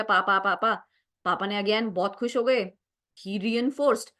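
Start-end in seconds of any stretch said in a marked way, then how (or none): 0.0-0.7 even string of repeated "पा"; demonstrated babbling. Shown as a demonstration. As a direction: run "पा" syllables together like babbling. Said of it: "पापा ने सुन लिया". (बैबलिंग जैसा लगातार "पा")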